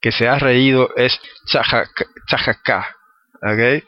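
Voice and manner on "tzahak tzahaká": tzahaká spoken slowly as a Hebrew word; tzahaká pronounced as Hebrew; Hebrew word read out. Shown as a demonstration. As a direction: sound out tzahaká syllable by syllable. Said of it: "la palabra que usa aquí".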